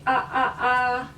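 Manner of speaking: short separate ah sounds; three quick ah bursts; repeated ah. Shown as a demonstration. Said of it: "just say".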